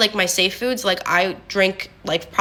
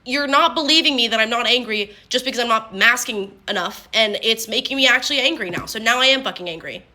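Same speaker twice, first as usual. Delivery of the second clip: retold exasperation, only mildly heated; mildly angry; 3 semitones higher than usual. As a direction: protest at not being believed, with a touch of anger. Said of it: "then I would get angry".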